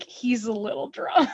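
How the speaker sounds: laughing through the words; giggling aside. Retold or imitated. Hurley chimes in, laughing.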